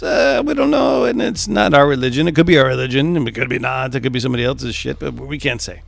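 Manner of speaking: high, loud hammed-up Italian accent, flustered; mock Italian official. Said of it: "he's like".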